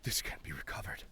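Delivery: hushed whispering character voice; breathy panicked whisper, mostly unvoiced; Sint's voice. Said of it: "May I have a voice request of Sint".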